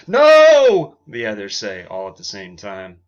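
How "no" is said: very high, loud shouted no; loud refusal. Acted. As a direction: shut the idea down hard. Everyone rejects the tuba song.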